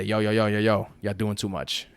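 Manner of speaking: lightly voiced outside country telling them to cool it; mock peacemaker. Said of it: "step in and say".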